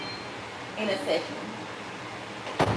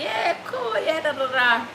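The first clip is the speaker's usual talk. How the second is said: dismissive high reply; 4 semitones higher, 4 dB quieter than usual. Retold or imitated. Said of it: "And I say".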